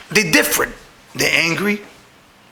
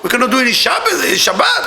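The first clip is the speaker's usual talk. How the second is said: excited outcry; 3 semitones higher than usual. Real, not acted. Exclaims frustration in sermon story.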